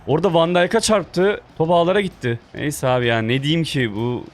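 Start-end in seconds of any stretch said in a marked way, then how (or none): 0.1-2.4 raised, higher-pitched complaint; indignant protest. Real, not acted. Gamer complains about the opponent's lucky goal, indignant. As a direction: protest the unfairness with real heat.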